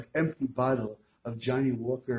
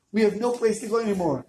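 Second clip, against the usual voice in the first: despairing cry; 8 semitones higher, 5 dB louder than usual. Acted. Rebbe despairing to wife.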